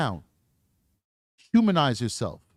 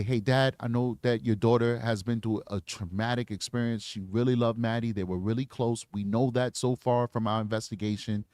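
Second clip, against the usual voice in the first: calm the dad, speak gently; reassuring detective to a protective father; sympathetic; 4 semitones lower than usual. Shown as a demonstration.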